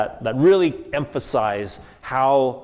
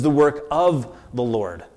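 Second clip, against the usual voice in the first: "of" held long; stress on of. Shown as a demonstration. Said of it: "I want to emphasize the word".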